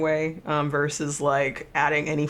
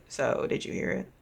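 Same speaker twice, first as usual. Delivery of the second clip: hushed rasp, almost breathless; raspy voice; 4 dB quieter than usual. Acted. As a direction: rasp it out like a wary stranger. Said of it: "kind of like a raspy voice of sorts".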